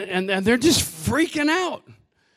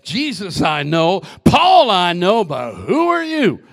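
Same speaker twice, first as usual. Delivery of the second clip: mocking demon voice; 2 semitones lower, 4 dB louder than usual. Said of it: "And the demon said".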